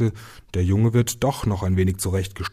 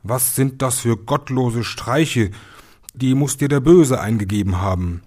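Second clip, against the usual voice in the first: scolding; 4 semitones higher, 4 dB louder than usual. Acted. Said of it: "schalt den Jungen aus".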